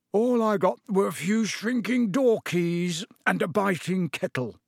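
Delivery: words through a yawn. Acted. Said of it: "yawned Mister Weasley".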